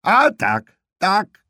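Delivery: high, loud, satisfied yell; old aunt shouting agreement; contented shriek back. Acted. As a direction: holler back, pleased to be heard. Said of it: "odwrzasnęła ukontentowana ciotka Ewi".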